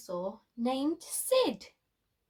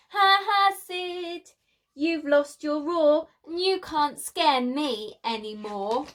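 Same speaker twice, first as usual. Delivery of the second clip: teasing taunt; 3 semitones higher, 5 dB louder than usual. Acted. Friend mocking Sid, lost roar.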